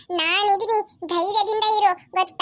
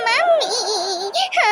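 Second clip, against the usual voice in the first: crying wail; much slower than usual. Acted. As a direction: wail for mummy, really crying now. Child cries after being scolded.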